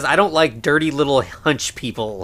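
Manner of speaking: ordinary talk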